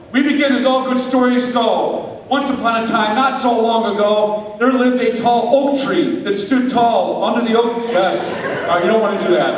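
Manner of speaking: lively storybook narration; storytelling narration. Acted. Preacher narrating a skit to the congregation, storybook style. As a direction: tell it like a children's tale.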